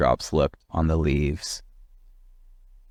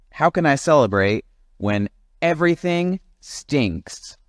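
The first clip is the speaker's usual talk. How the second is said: higher, fast whiny rant; grumpy complaining; 5 semitones higher than usual. Acted. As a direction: list every grievance in a huff. Jim complaining.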